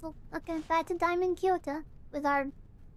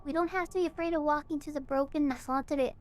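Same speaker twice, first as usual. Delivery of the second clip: a calm, slightly low sermon-like reading; lightly voiced cult leader; 5 semitones lower than usual. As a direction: read the farewell message as a serene cult leader, barely acted. Player reads a cult leader's message.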